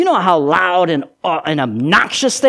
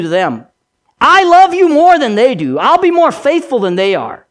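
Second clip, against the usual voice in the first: earnest boast; 3 semitones higher, 4 dB louder than usual. Acted. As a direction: insist you love him most. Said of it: "what Peter had said".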